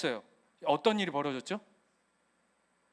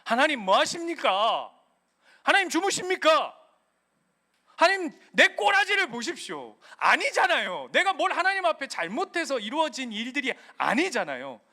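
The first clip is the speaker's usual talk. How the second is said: complaint and lament; 4 semitones higher, 3 dB louder than usual. Retold or imitated. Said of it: "하는 원망과 한탄과".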